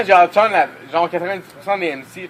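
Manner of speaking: talking through a burp; words broken by a burp. Real, not acted. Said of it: "En rotant".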